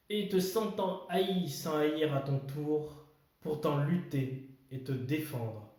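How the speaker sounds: measured verse with pauses between lines; poem recitation. Acted. Host reading Kipling's If to viewers, poem recitation. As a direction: recite it line by line, weighing key words.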